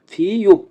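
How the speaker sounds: ফিউপ high, starting on ফ; pronunciation demo. Shown as a demonstration. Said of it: "ফিউপের উচ্চারণ হবে ফ". (ফিউপ উঁচু স্বরে স্পষ্ট উচ্চারণ)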